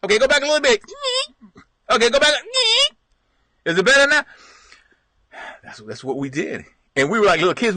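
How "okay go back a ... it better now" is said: high, louder calls from the roof; calling out. Retold or imitated. Dad calling down from the roof, loud and high. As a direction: shout down, adjusting the antenna.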